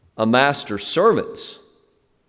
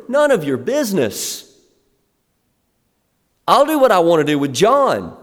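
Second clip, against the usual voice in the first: Jesus answering firmly; 7 semitones higher than usual. Retold or imitated. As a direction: voice Jesus putting Peter in his place. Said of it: "So Jesus' answer is".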